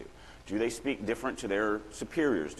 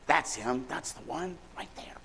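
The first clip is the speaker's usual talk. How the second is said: pointing out, fading to a whisper; witness at lineup; 5 semitones higher, 3 dB quieter, slower than usual. Pretend. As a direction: sure but hushed, naming the culprit. Picking suspect in police lineup.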